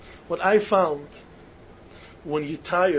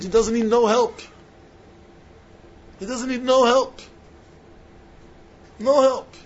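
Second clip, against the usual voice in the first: louder and higher, hammering the word no; emphatic insistence; 5 semitones higher, 5 dB louder than usual. Real, not acted. Preacher insisting to the students, building louder. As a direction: punch no harder each time.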